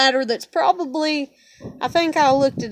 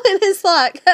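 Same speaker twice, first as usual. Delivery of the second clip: bitter laugh; 7 semitones higher, 6 dB louder than usual. Real, not acted. Bitter laugh after outburst.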